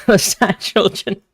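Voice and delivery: slow, giggly confession; slowly, with a guilty giggle; laughing. Real, not acted. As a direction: laugh through a guilty admission. Admits enjoying sad fans.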